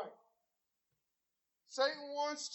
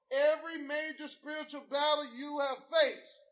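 preaching; 4 dB louder than usual. Acted. Preaching at full force.

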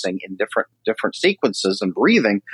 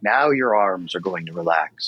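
lower, lightly imitated relaxation reading; relaxation script reader; 4 semitones lower, 3 dB quieter than usual. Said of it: "they read different".

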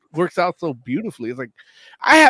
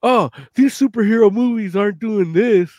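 mock James Cameron; 3 semitones higher, 4 dB louder than usual. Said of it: "when you hear James Cameron say".

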